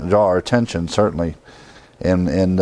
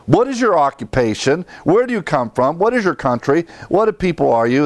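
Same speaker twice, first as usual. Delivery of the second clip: higher, rapid-fire questions; interrogation; 4 semitones higher than usual. Retold or imitated. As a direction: grill him with raised voice. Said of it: "giving him the third degree".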